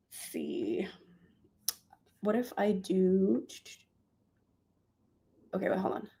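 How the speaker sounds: breathy whisper to herself. Real, not acted. Vlogger editing her thumbnail, whispering to herself. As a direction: whisper it while concentrating.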